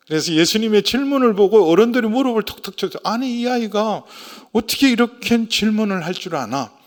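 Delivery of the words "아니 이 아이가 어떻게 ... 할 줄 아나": retold amazement, higher pitched; 놀란 어른들. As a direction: act out elders marveling at a child. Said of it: "그렇게 놀랍게 있는데". (놀라서 감탄하는 어른들 흉내)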